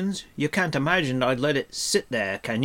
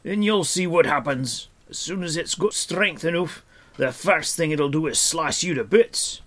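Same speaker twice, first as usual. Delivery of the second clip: loud, high, sarcastic tirade; mock their kindness in an exasperated, raised voice; scornful dwarf rant; 9 semitones higher, 7 dB louder than usual. A narrator's reading. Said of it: "he snorted".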